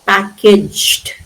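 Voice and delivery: PACKAGED as two syllables, PACK-ijd; simple D ending. Shown as a demonstration. Teacher shows the E D ending, simple D sound. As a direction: close PACKAGED on a plain d, no extra syllable. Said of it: "simple D sound".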